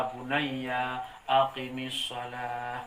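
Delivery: slow, tender Arabic to a son; tender recitation. Retold or imitated. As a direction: draw it out gently, like a father. Luqman addressing his son.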